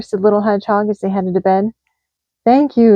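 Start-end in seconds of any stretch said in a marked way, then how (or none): 2.4-2.9 yawning. A narrator's reading. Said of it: "yawned Badger".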